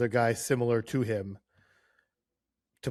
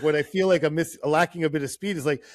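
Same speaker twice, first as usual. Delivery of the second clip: imitating a pointed but friendly reply, pitched up; good-natured pointed remark; 4 semitones higher, 5 dB louder than usual. Reporter translating a player's French answer, playfully pointed. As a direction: make the retold quip pointed, punch it higher and louder. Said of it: "he just kind of pointed it out, not in, like, a mean way".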